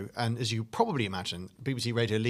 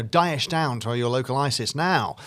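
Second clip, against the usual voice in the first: lightly hammed-up, louder TV ad read; sofa-sale advert voice; 2 semitones higher, 6 dB louder than usual. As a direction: sell it like a cheap furniture advert. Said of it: "And it was like".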